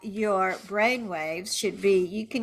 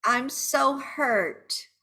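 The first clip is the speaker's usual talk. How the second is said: slow, higher, wounded cry of words; hurt venting; 5 semitones higher, much slower than usual. Shown as a demonstration. Betrayed partner venting, slow and hurt. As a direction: draw out the hurt.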